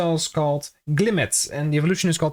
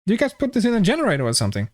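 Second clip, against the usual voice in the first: pitched up and rushed, mock incredulous; mock disbelief, higher and quicker; higher, faster repeat; 5 semitones higher, much faster than usual. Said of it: "repeated higher, faster".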